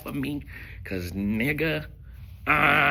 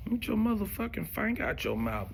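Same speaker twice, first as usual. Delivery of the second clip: high, disgusted snap at him; mock disgust; 9 semitones higher, 4 dB quieter than usual. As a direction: recoil with a raised incredulous voice. Disgusted retort to Ron.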